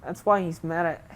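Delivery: mildly hammed-up southern voice; bad southern accent. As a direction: voice game dialogue with a makeshift southern accent. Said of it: "that's not even a good southern accent".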